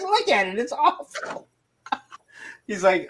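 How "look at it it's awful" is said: squeaky high-pitched disgust; high mock-horrified voice; mock high squeal. Mocking the ugly jacket.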